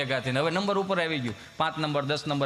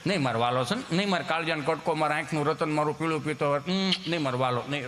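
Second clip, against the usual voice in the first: lightly voiced mother soothing her darling; tender mother; 5 semitones lower than usual. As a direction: croon endearments to calm him. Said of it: "રોવે નહીં, એને કપડાં ખખેરતી જાય".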